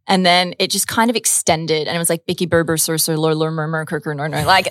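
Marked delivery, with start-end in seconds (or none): 2.3-4.4 lower, rolling string of "er" sounds; lightly goofy pet-name voice; silly nickname voice. Shown as a demonstration. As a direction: run the nicknames together on "er". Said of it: "In that exact voice as well".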